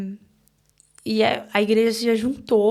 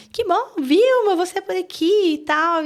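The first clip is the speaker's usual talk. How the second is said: tia animada; 10 semitones higher, 6 dB louder than usual. Retold or imitated. Tia recebe a mãe.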